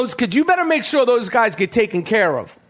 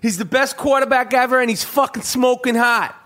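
lightly hammed-up Boston accent; imitation Boston fan raving; 3 semitones higher than usual. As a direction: gush in a mock Boston voice. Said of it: "That's my Boston accent again".

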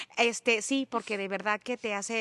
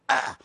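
disgusted groan; 5 semitones higher, 7 dB louder than usual. Retold or imitated. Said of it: "Y yo".

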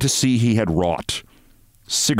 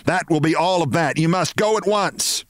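mock shout; 8 semitones higher than usual. A narrator's reading. Mrs Barrows ordering Mr Martin out, mock shout. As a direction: order him out in a hammed-up shout. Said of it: "she shouted".

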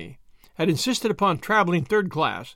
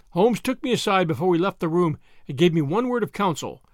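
usual speaking voice

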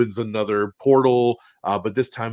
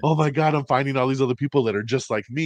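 excited geek; 4 semitones higher, faster than usual. Retold or imitated. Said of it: "being like".

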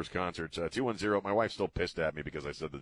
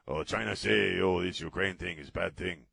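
put-on Chinese accent. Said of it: "I just did a Chinese accent".

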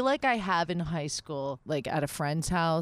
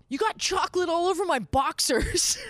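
higher, louder mock boyfriend; imitating boyfriend; 10 semitones higher, 3 dB louder than usual. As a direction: quote him with a light mock voice. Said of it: "he said this".

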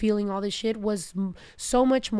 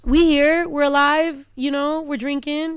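emotional and loud; 4 semitones higher, 4 dB louder than usual. Real, not acted. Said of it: "about to cry".

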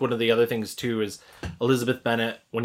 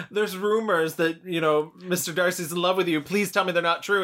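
lightly acted aristocrat, pitched up; a higher, pleading mock-dowager voice; mock Lady Catherine; 6 semitones higher than usual. Podcaster retells Lady Catherine confronting Elizabeth, hammed-up and higher.

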